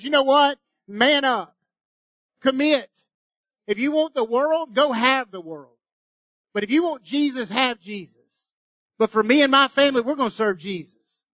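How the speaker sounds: voicing Joshua. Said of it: "he goes".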